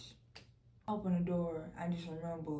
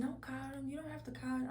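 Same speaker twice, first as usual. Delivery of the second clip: soft, high, smiling voice; smiling reassurance; 6 semitones higher, 4 dB quieter than usual. Retold or imitated. Telling mama not to call, smiling softly. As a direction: gently wave it off through a smile. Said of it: "I'm saying it with a smile".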